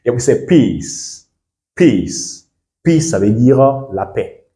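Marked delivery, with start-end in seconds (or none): 0.4-1.3 PEACE with the ee stretched; drawn-out long vowel. Shown as a demonstration. Teacher modelling the long sound, PEACE drawn out. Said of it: "On doit un peu tirer là". 1.8-2.5 PEACE alone with a long, falling ee; drawn-out long vowel. Shown as a demonstration. Teacher repeating for learners, PEACE drawn out. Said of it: "On doit un peu tirer là".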